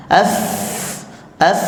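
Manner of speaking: "Af" with lots of air out; breathy af. Shown as a demonstration. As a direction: push a long breath through "Af". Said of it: "Anginnya dikeluarkan banyak". ("Af" dengan angin banyak)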